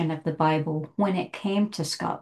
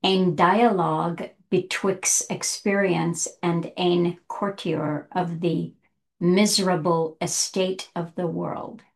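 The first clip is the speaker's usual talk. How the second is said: attempted Scots reading. Shown as a demonstration. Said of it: "sorry to the Scots people, but I'll mess it up".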